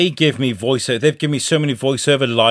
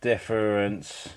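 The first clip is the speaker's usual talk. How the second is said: slow, halting, distracted delivery; dictating while typing; much slower than usual. Real, not acted. Host typing a message to someone, dictating haltingly. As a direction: say it piecemeal as you type each word. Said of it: "He is dictating what he is spe".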